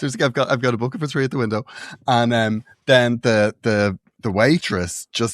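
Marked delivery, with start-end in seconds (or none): 0.3-1.6 quick, lightly imitated Welsh accent; a hint of Welsh, retold. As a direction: rattle it off as a Welsh mother. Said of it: "she had a very strong Welsh accent".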